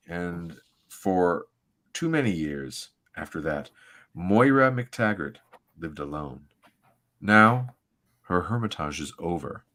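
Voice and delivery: measured, dramatic comic-book narration; story narration. Acted. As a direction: read it like a solemn, grand opening. Reads comic narration aloud.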